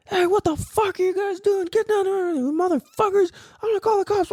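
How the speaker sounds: high-pitched mock rant; hammed-up, strained high scolding; imitating an angry old man. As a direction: rant like an irate old guy scolding kids. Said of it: "so angry, though".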